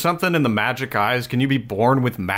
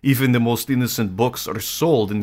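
Russian Orthodox priest voice. Pretend. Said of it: "can you read this in a Russian Orthodox priest voice?".

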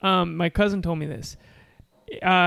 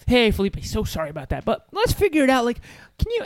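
peppy support guy; 4 semitones higher than usual. Retold or imitated. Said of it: "he was always peppy".

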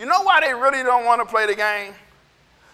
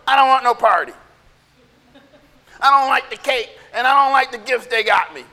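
mildly acted birthday tantrum; a touch of pouting anger; mad sulking kid. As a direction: refuse everything like a cross child. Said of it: "they sit on their bed and they're mad".

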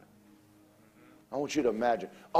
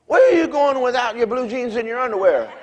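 puzzled question; 8 semitones higher, 6 dB louder than usual. Retold or imitated.

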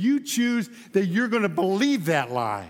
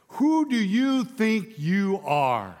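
mock indignant crowd; slower than usual. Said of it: "at this they exclaimed".

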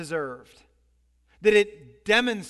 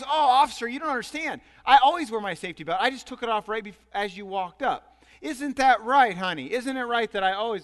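loud, protesting husband pleading his case; indignant husband; 3 semitones higher, 4 dB louder than usual. Acted. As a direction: insist loudly you did nothing wrong. Husband protests to police officer.

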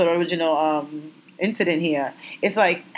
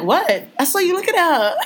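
mock challenge, climbing high; retold confrontation; 9 semitones higher than usual. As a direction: throw it back at him, pitch rising. Retold confrontation with her husband.

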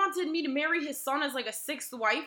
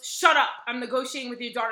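stern mean voice; 5 dB louder than usual. Retold or imitated. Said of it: "in, like, this really stern, like, mean voice".

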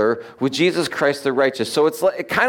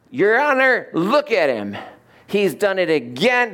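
lightly voiced devil, raised pitch; 5 semitones higher than usual. Devil accusing a believer before the judge, light devil voice. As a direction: accuse like a mock courtroom devil. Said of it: "This is my devil voice".

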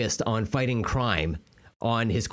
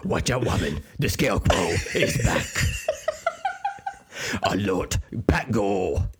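Batman; 4 semitones lower than usual. Acted. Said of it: "playing the role of Batman".

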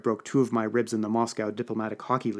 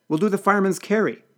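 raised, high-pitched instruction; urgent order; 8 semitones higher, 5 dB louder than usual. A narrator's reading. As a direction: take charge loudly in a crisis. Urgent order as rioters break in.

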